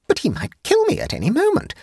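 very high, frightened objection; high-pitched woman fearing for her life; alarmed protest. A narrator's reading. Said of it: "protested Jane".

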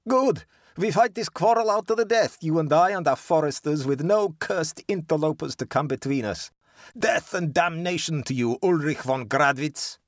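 high, loud, venomous defiance; snarling. A narrator's reading. Georg swears a fight to the death, snarling and high. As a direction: snarl a curse at your enemy, voice pitched right up. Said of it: "snarled Georg".

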